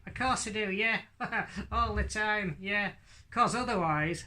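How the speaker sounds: high northern lad puppet voice; Hadley. Acted. Puppet answering how to practise, high northern lad voice. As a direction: pipe up as a northern puppet boy. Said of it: "he speaks with a northern accent".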